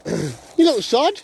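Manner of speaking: slow, high, laughing mock telling-off; laughing scold. Real, not acted. Owner to dog, slow laughing scold. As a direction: tease the dog who just clobbered you. Dog hits him with stick.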